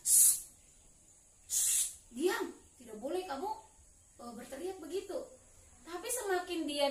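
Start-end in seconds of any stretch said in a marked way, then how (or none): 0.0-5.2 shushing, then a mild telling-off; mildly acted scolding. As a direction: shush him like an annoyed crowd, without shouting. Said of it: "Orang-orang marah kan". (teguran marah yang ringan)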